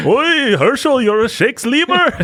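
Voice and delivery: lightly voiced Yiddish old man, joking; mock Yiddish accent. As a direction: tease in a half-hearted Yiddish accent. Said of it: "I can't do a racist Jewish accent".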